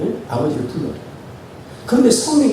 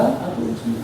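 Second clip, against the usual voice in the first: soft call; 3 semitones higher, 7 dB quieter, much slower than usual. Shown as a demonstration. Calling father again.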